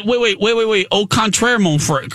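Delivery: playful alarm at the news; mock disbelief. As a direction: stop him short, hammed up. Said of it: "I said".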